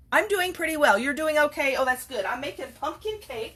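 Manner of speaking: bright small talk with a visitor; chatty aside. Real, not acted.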